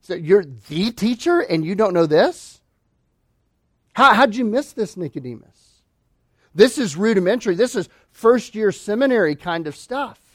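lightly teasing, incredulous questions; a preacher voicing Jesus needling Nicodemus; gentle mockery. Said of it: "Jesus is kind of mocking him".

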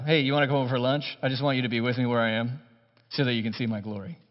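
fast, low, self-important mock invite; breezy mock boast; mock arrogant friend. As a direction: lightly send up a pompous friend. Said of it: "if anybody else said this".

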